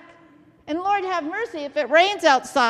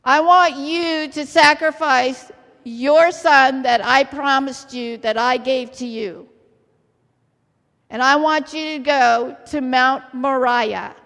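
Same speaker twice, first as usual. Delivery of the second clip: loud, emphatic divine command; voice of God; 6 dB louder than usual. Acted. Preacher as God demanding Abraham's son, forceful command. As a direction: press each phrase as a solemn order. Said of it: "God came down and said".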